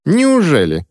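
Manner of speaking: высокое насмешливое «Неужели?»; с издёвкой усомниться; недоверчиво. A narrator's reading. Ремора сомневается в ответе. (недоверчивая Ремора мальчику)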